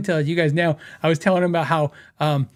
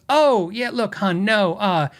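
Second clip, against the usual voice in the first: imitated New York customer service lady; New York phone lady, explaining familiarly; bad New York accent; 2 semitones higher than usual. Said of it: "I have a horrible, uh, New York accent".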